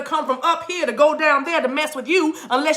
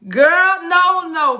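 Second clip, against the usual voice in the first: emphatic teasing refusal; 4 semitones higher, 4 dB louder, much slower than usual. Real, not acted. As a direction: wave away a silly guess loudly. Teasing rebuttal of the parakeet guess.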